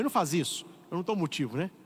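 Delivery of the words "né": ordinary delivery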